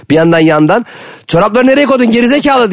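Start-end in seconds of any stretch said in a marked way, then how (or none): 1.3-2.7 yelling. Retold or imitated. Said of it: "diye sana bağıran biri".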